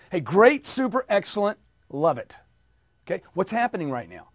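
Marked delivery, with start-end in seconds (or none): 0.1-2.4 bright call-and-repeat positives; upbeat drill. Shown as a demonstration. Coach leading the audience drill, upbeat. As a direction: pump the words for the class to echo. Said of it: "Just repeat after me".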